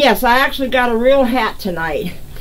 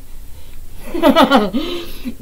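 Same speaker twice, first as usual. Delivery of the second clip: higher chuckling laugh; amused laugh; 4 semitones higher, 3 dB quieter than usual. Real, not acted. Host laughing at Jen's try, amused chuckle. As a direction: chuckle helplessly for a moment.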